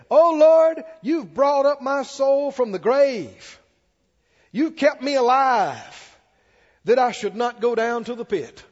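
high, loud, drawn-out psalm proclamation; exultant pulpit declamation; full-force preaching. Real, not acted. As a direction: cry the verse out to the congregation.

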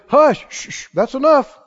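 firm reassurance. Retold or imitated.

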